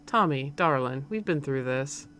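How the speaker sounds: lightly Southern mother; slightly southern accent. Acted. Mom reasoning with her son, slightly southern accent. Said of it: "like, a slightly southern accent".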